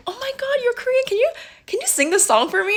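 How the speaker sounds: very high, squealy imitation of excitement; mock fangirl excitement; gushing fan. Imitates excited K-pop fans.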